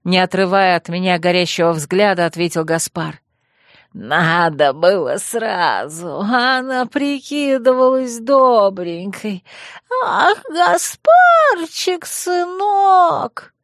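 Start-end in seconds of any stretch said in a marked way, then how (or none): 3.9-9.4 madman. Acted. Madman ranting about killing. 10.0-13.5 high, slow squeaky wail; mock a doting mother in a squeal; a madman mocking his stepmother, high and squeaky. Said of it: "песклявым голосом процитировал он".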